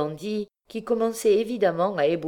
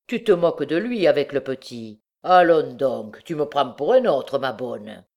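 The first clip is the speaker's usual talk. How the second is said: scoffing bandit; 5 dB louder than usual. Acted.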